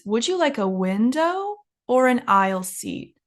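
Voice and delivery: teacher's demo, "window" way up, "aisle seat" down; up then down intonation. Shown as a demonstration. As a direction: exaggerate the climb on "window", drop "aisle seat". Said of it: "the second option goes down".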